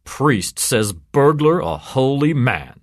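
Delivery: slow, headline-style mockery; chortling cop. A narrator's reading. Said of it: "chortled Sergeant Benway".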